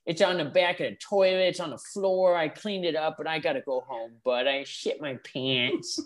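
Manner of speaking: imitating Little Alan. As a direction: do Alan's dopey way of talking. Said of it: "That's how he talked".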